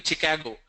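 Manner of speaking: Chicago starting with hard "ch"; Chicago with ch as in chip; common wrong Chicago. Shown as a demonstration. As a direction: say Chicago as "chi-KAG-o". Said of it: "A lot of people say".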